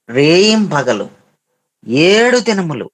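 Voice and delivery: రేయింబగలు and ఏడు drawn out slowly for weight; emphatic repetition. Real, not acted. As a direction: stretch the first vowels of రేయింబగలు and ఏడు so listeners take note. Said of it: "ఈ మాట బాగా గమనించు". (రేయింబగలు, ఏడు నొక్కి, సాగదీసి చెప్పడం)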